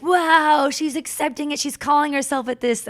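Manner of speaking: high, loud astonished gasp of a quote; mock amazement. Onlookers online reacting to her new name, mock amazed. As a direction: play the gossiping onlookers, wide-eyed.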